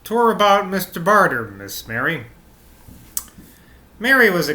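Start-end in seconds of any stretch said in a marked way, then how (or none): 0.0-2.3 maid's halting voice. Acted. Maid explains herself to Miss Mary, halting.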